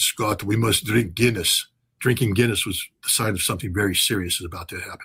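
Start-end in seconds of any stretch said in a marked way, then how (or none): 0.0-1.7 put-on heavy, thick Russian accent, laid on. Retelling what a senior russian diplomat said to him by phone, thick russian accent. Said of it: "in his thick Russian accent".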